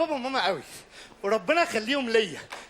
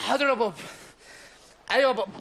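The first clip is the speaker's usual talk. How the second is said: ordinary delivery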